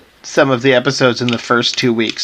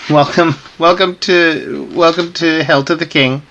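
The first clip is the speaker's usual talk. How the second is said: talking through tiny pursed lips; 3 semitones higher than usual. Real, not acted. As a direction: squeeze words through a small mouth. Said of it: "We're doing the entire thing through pursed lips".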